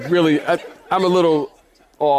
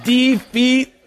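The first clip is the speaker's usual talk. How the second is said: "Defeat" in two separated beats, de FEET, higher; pun on DEFEAT; 4 semitones higher than usual. Shown as a demonstration. Preacher repeating his pet joke, "Defeat" split as de-FEET. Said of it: "I thought that was great".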